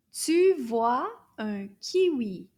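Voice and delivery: slow and clear, "Tu vois un kiwi"; slow model sentence. Shown as a demonstration. Teacher models the sentence slowly for children. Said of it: "Alors, répétez".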